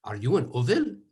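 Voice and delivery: put-on a light Yiddish accent on the stranger's question; hint of a Yiddish accent. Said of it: "in his finest Yiddish accent".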